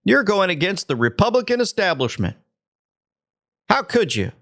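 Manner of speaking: high, mocking scold; sarcastic mock-horror; mock outrage. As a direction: mimic the shocked establishment.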